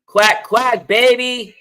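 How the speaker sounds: high playful quack, quack; duck quacking voice. Pretend. Duck call for Oregon pick.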